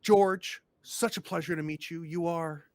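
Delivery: fluster and gush over the visitors; nervous welcoming mayor, overeager; eager small-town mayor. Acted. Mayor greets Geraldine.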